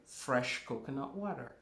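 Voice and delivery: "fresh" stressed ahead of coconut water. Shown as a demonstration. Teacher telling class to use only fresh coconut water, stressing "fresh". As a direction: lean firmly on the word "fresh". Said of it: "notice that I'm emphasizing fresh".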